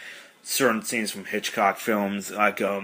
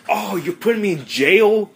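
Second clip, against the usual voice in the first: much higher, louder outraged question; shocked squeal; 11 semitones higher, 6 dB louder than usual. Retold or imitated. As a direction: squeak it in disbelief. Kelso shocked at jail.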